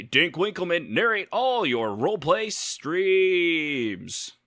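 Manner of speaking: big, bright radio announcer read. Acted. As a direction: sell it like a game-show host. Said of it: "stop talking in my announcer voice".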